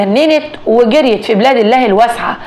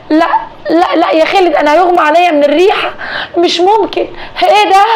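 high, rising panic, near a cry; she's about to faint, let it climb; panicked; 6 semitones higher than usual. Acted. Wife panics at the stench.

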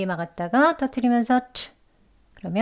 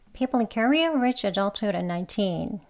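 sentence run together quicker, adulthood linked; faster; 4 dB quieter, much slower than usual. Shown as a demonstration. Teacher modelling the sentence quickly for learners. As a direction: say the sentence at a brisk natural pace. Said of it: "빨리도 해볼게요".

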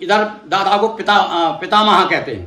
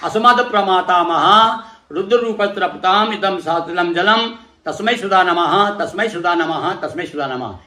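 mantra recitation. Shown as a demonstration. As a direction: intone it like a priest leading the offering. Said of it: "इसी प्रकार से".

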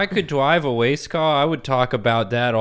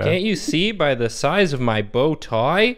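lightly voiced proud little boy; a hint of a kid showing off; wholesome 1950s kid; 4 semitones higher than usual. Kid voice in 1950s show bit.

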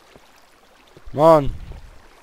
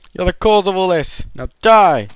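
raised but less loud accusation; milder mock anger; 5 semitones higher, 4 dB louder than usual. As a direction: repeat the blame with less force. Attacks villager again.

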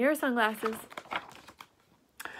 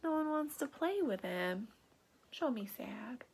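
whisper; 10 dB quieter than usual. Real, not acted. Reader asks child.

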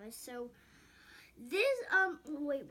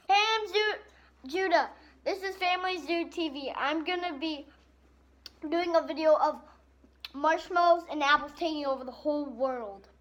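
excited vlog intro; 2 semitones higher, 6 dB louder than usual. Real, not acted. Kid opening his video for the viewers, loud and excited. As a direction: greet the viewers with big energy.

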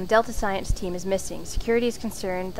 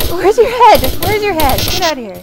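frantic yelling; 7 semitones higher, 14 dB louder than usual. Real, not acted. Yelling at an unseen monster.

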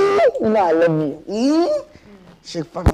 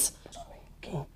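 hushed apology; husband soothing his angry wife; whispered sorry; 16 dB quieter than usual. Acted. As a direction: breathe the apology out. Husband pleads softly.

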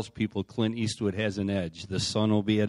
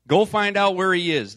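raised, louder command within a reading; royal order; 10 semitones higher, 9 dB louder than usual. A narrator's reading. King sends men to find Elisha, narrated order. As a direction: read it as a king giving orders. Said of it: "the king ordered".

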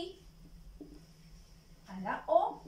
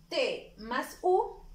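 slow sounding out; 3 dB louder, much slower than usual. Shown as a demonstration. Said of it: "teacher sounding out syllables".

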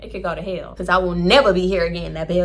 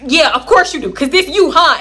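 sarcastic gotcha; 5 semitones higher, 7 dB louder than usual. Retold or imitated. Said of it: "I'm like".

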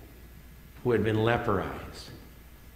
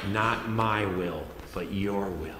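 humble surrender; 3 semitones lower, slower than usual. Retold or imitated. Voicing Jesus's surrender in prayer.

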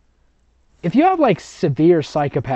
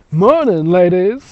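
friendly nurse; 4 semitones higher, 8 dB louder, slower than usual. A narrator's reading. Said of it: "he smiles".

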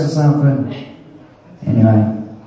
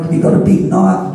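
keen ask; 6 semitones higher than usual. Retold or imitated. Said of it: "I'm like".

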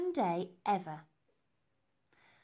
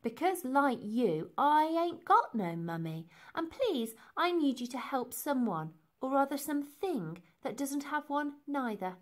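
put-on higher-pitched, earnest young girl; raised, urgent little-girl plea; pleading child; 5 semitones higher than usual. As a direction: make a heartfelt appeal in a child's voice. Elsie appeals to the gang.

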